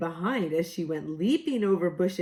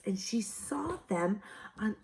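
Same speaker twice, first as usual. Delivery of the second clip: unvoiced whisper; 6 dB quieter than usual. Real, not acted. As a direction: breathe it softly. Whispered aside.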